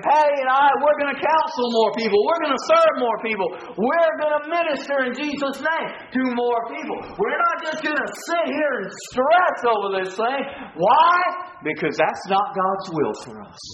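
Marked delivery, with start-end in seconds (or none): 0.0-11.1 raised, insistent pulpit declaration; rallying preacher's voice; fervent preaching. Real, not acted. Preacher declaring resolve to congregation.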